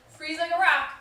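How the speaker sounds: firm loud call to freeze; called-out command. Pretend. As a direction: parent calling out to a running child, loud firm command. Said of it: "your parent says".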